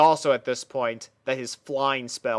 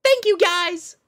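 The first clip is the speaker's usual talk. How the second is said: high bright pony princess voice, much higher; 5 dB louder than usual. Acted. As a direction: play the cheerful young princess, pitched way up. Princess Sparkle character voice.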